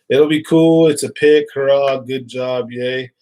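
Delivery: mock cheering; hammed-up fake praise; sarcastic. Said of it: "It's like".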